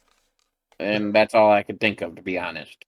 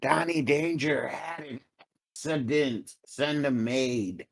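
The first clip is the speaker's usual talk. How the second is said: hushed, higher-pitched stage whisper; 5 semitones higher, 7 dB quieter, slower than usual. Acted. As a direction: whisper it softly for the whole room to overhear. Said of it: "stage whisper".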